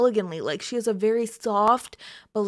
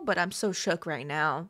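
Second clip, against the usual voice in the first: quieter shook; 5 semitones lower, 8 dB quieter than usual. Real, not acted.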